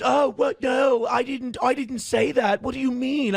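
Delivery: imitating a guy caught out, voice jumping up; mock panicked backpedal. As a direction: squeak out a scared denial, backing down fast. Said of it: "The guy goes".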